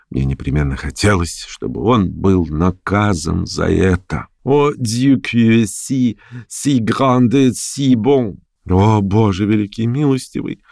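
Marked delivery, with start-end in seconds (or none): 4.4-10.6 slow, drawn-out cry to God; exclaiming. Acted. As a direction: plead heavenward, stretching each word. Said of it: "воскликнул он". (медленное восклицание, мольба к Богу)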